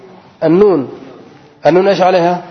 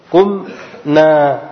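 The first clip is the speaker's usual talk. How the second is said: قمنا stretched slowly so each sound is heard; قمنا, slow and deliberate; slowly drawn out; much slower than usual. Shown as a demonstration. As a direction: draw out قمنا for the students. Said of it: "مثل".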